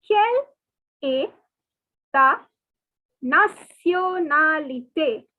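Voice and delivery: Quelle est ta nationalité split into slow separate words; slow dictation of the French question. Shown as a demonstration. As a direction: dictate each word slowly for copying. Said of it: "listen carefully".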